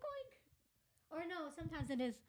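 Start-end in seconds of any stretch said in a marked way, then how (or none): 0.0-0.4 high, quiet little oink; pig oink. Shown as a demonstration. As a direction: squeak a tiny piggy oink. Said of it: "it's like oink".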